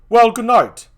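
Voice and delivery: called farewell. Acted.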